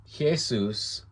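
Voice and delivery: "Jesus" as hyeh-SOOS; "Jesus" with a throaty h, ending in soos; Greek pronunciation. Shown as a demonstration. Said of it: "It's pronounced Jesus".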